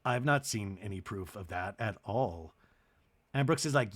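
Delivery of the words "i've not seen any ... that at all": low, soft earnest statement; mock serious. Chloe taking the insult seriously, low and quietly mock-earnest. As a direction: imitate a very solemn youngster quietly. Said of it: "Chloe takes it seriously".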